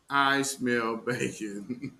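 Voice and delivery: "I smell bacon" stretched out slowly, word by word; a slow, knowing "I smell bacon"; slow, drawn-out tease. Shown as a demonstration. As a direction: drag out "I smell bacon" slowly, like a sly taunt.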